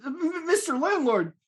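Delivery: high-pitched, cowed stammer; stammering tenant. Acted. Danny cowed by the landlord's outburst, high stammer. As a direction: stammer on the first sound, meekly.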